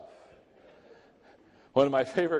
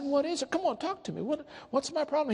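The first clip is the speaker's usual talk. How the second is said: eager pleading; 11 semitones higher, faster than usual. Retold or imitated. Begging for the problem.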